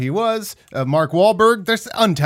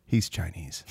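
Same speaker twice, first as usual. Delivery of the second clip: low, soft deadpan quote; mock Alfred Molina line; quoting Molina; 10 semitones lower, 9 dB quieter, slower than usual. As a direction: drop low and flat for the punchline. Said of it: "He does it in that way".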